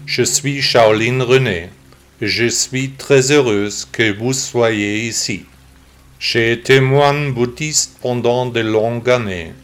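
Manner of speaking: synthetic text-to-speech computer voice. Real, not acted. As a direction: read like a computer voice. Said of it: "j'ai décidé d'enregistrer le podcast avec une voix d'ordinateur".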